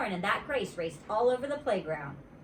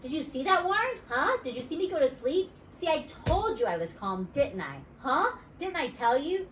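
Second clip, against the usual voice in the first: put-on excited little girl; 6 semitones higher than usual. Junie B voice.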